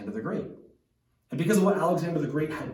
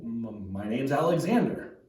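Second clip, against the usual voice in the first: mildly nervous stammered reply; apprehensive; 2 semitones lower than usual. Retold or imitated. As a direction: stumble on the first word, a touch uneasy. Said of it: "starts to get a little apprehensive".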